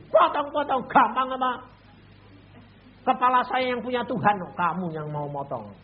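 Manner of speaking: high, loud defiant shout; shouting back. Retold or imitated. Preacher defying the rebels, loud high shout. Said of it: "Saya teriak gitu".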